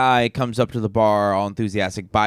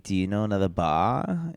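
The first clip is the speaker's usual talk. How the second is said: put-on Australian accent; 3 semitones lower, 6 dB quieter than usual. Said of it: "that was actually close to how they sounded".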